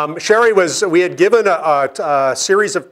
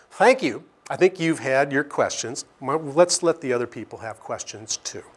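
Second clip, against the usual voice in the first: calm, softer polite brush-off; unruffled, quietly dismissing the angry questioner; very calmly; 5 dB quieter than usual. Retold or imitated. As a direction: gently close him down and move on. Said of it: "Sherry goes very calmly".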